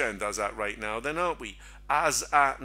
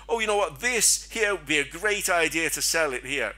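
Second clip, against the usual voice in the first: lightly voiced silly chart indicator, pitched higher; mock indicator voice; 4 semitones higher, 4 dB louder than usual. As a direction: toss off a bad idea in a higher, silly voice.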